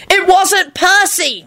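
very high, slow denial; loud protest. A narrator's reading. Timothy denying it was Percy, loud protest. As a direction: insist high, word by word. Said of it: "Timothy said loudly".

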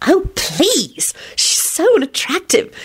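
put-on high, scornful young voice; scornful scoff. A narrator's reading. Rosie dismisses William's idea, scoffing.

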